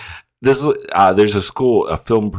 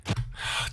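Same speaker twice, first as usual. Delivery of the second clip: exasperated sigh; 13 dB quieter than usual. Real, not acted. Exasperated with the film character.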